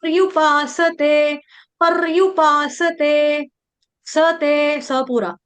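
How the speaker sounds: slow, drawn-out chant with long held vowels; Sanskrit verse recitation. Shown as a demonstration. Teacher modelling a verse for students, slow measured chanting. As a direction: chant it syllable by syllable, steadily.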